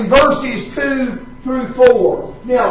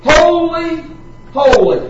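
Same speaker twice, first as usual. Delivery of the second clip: raised, ringing cry of holy, holy, holy; 4 semitones higher than usual. Retold or imitated. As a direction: call it out like the angels in worship. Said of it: "they are crying".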